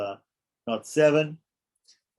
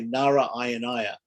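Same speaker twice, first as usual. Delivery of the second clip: Nara Ayanaya as two separate words; distinct break after Nara in Nara Ayanaya; word cut in two. Shown as a demonstration. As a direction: split it into Nara, then Ayanaya. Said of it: "cut Narayanaya into two".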